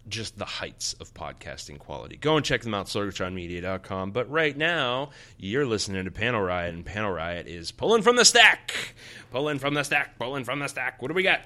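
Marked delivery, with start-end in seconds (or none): 2.2-11.4 loud, high showman build; wrestling-style hype; hyped host intro. Acted. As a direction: announce the segment like a ring host. Show segment hype intro.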